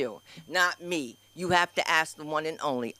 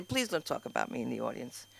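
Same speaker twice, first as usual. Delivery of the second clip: much softer, mock timid request; timid plea; 7 semitones lower, 9 dB quieter than usual. Host mimics guests begging not to be roasted, soft timid plea. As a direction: whimper it like a shy guest.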